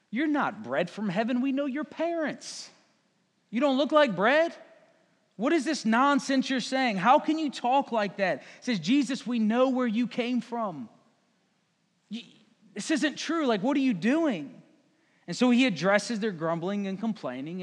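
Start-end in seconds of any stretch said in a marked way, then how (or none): 0.1-8.4 acted grumbling crowd, pitched up on the retorts; mock-indignant objection; complaining. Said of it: "They started complaining". 8.8-14.5 grumbling objection, lightly hammed-up; complaining. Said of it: "They started complaining".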